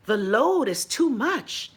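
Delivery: slow fake gasp and a drawn-out complaint; feigned surprise. Mocking the power company feigning shock at summer load, gasping slowly. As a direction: act shocked at something you saw coming. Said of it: "And yet you feign surprise".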